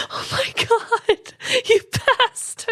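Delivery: high, laughing mock insult; playful teasing. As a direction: tease a friend with fake outrage. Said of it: "I'm just kidding".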